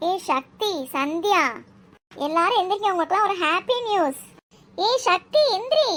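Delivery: high-pitched, eager calling; excited wake-up call. Acted. Girl waking her sleeping friends with happy news, excited calling. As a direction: rouse the sleepers, pitch climbing.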